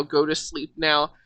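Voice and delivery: a hint of a low, hushed monster voice; creepy low voice. DM voices the monster lulling the party, hushed and eerie. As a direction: murmur it softly like a lurking creature.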